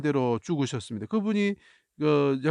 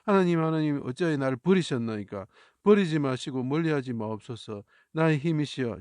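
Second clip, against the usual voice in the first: crying out. Acted. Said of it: "뭐라 소리치셨습니까?".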